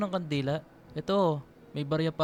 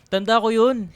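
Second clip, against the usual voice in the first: teasing words through a laugh; laughing tease; 4 semitones higher, 7 dB louder than usual. Acted. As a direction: laugh while reminding her. Teasing her about crying as kid. (natatawang pang-aasar)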